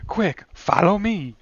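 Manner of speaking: put-on slow, high old-movie gangster voice; thirties transatlantic voice. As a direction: play a 1930s getaway driver. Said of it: "What is this voice you're doing?".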